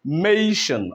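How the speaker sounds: "mation" with the force on MA; stressed syllable. Shown as a demonstration. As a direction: lean into the first part of "mation". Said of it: "So we have the stress here".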